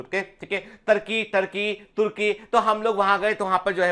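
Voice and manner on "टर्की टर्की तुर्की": टर्की said slowly, then तुर्की; both names said carefully; comparing pronunciations. Shown as a demonstration. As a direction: spell out टर्की against तुर्की. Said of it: "हम लोग टर्की बोलते हैं".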